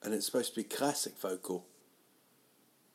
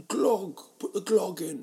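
higher, louder silly call; mock safe word; 10 semitones higher, 4 dB louder than usual. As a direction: blurt the daft safe word. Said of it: "Be like".

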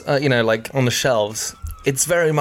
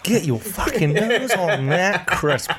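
sommelier tasting notes; 3 semitones higher than usual. Acted. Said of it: "talking like a sommelier".

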